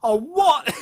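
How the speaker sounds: re-enacted loud, high cry of disbelief; imitated indignant yelp; audible outburst. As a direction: blurt it out, acting appalled. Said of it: "I audibly went".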